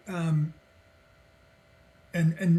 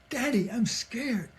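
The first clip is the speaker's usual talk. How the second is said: put-on higher, more urgent little-boy plea; escalating scared child; 6 semitones higher, 3 dB quieter than usual. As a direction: imitate a frightened child getting more insistent. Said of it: "then he kept escalating it".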